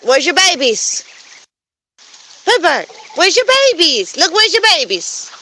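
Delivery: high coaxing voice to a bird; pet-talk voice. Real, not acted. Asking the goose Layla what's wrong, high coaxing. Calling goose about babies.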